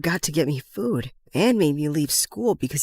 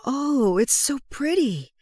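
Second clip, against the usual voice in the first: higher-pitched, touched delight at a gift; 5 semitones higher, slower than usual. Acted.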